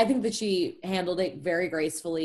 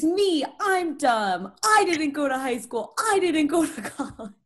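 mock dramatic laughing; 7 semitones higher than usual. Mock dramatic self-blame bit.

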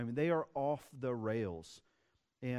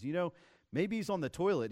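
higher-pitched, teasing mock suggestion; the speaker's playful taunt; 5 semitones higher, 3 dB louder than usual. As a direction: needle them with a cheeky guess. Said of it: "Elijah has some fun with it".

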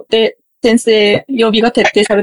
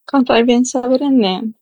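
copying a Kansai intonation; Kansai dialect. Shown as a demonstration. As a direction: learner repeating a Kansai line. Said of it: "みたいな感じですかね".

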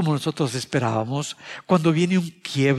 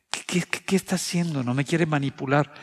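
suspicious inner voice. Retold or imitated. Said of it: "me sentía como que".

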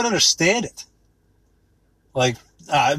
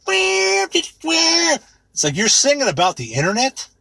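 incredulous; 9 semitones higher, much slower than usual. Real, not acted. Incredulous reaction to the song.

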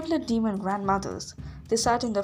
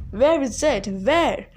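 loud, angry demand with little hiss; 3 semitones higher, 7 dB louder, slower than usual. A narrator's reading. Furies surround the friends hunting for it, loud demand. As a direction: demand it forcefully, voice raised.

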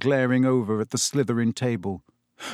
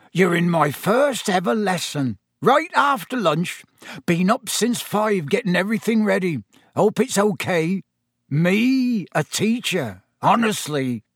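eager, higher-pitched, rustic excitement; Hagrid; 6 semitones higher than usual. A narrator's reading. Hagrid about his first ever lesson, eagerly. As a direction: burst with proud, amazed delight. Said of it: "he said eagerly".

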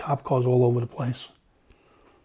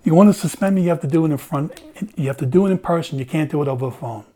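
defiant retold outburst; 2 semitones higher, 3 dB louder, faster than usual. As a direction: throw the challenge back hard. Captain defying lieutenant, retold.

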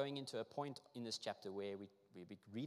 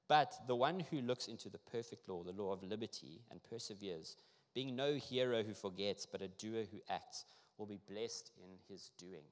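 measured, emphatic Bible reading; strong opening, slowing into each phrase; scripture reading; 4 dB louder than usual. Acted. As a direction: read the verse aloud with deliberate weight, easing down at the end. Reads scripture aloud.

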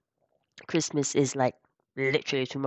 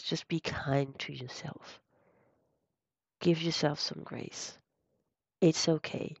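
soothing; 4 dB quieter than usual. Real, not acted. Soothing self-compassion advice.

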